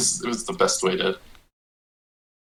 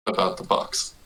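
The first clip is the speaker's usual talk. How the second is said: breathy whisper, barely voiced; whispering to the lord about the box; 6 dB quieter than usual. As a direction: hush it so only the lord hears. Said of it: "lower my voice so it's closer to a whisper".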